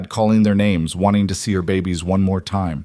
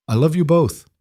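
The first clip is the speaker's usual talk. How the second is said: rough voice; 8 semitones higher than usual. Acted. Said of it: "he said roughly".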